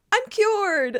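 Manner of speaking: high, bright mock cheer; quoting Sookie. Host quoting Sookie's instant recovery, high triumphant. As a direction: declare it like a miracle. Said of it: "Or when she's like".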